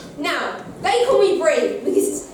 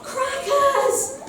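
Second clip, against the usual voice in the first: demo shout; 10 semitones higher than usual. Shown as a demonstration. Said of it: "I want you to all shout".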